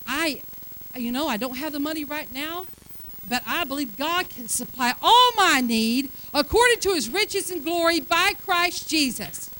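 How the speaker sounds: a hint of bold faith; confident faith declaration. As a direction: declare it like you believe it. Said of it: "But when you say".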